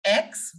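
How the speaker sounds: final "X" said as "eeks"; long ee in "X", like "eeks"; French X. Shown as a demonstration. Teacher modelling French X for learners, drawn out. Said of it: "X will be pronounced as".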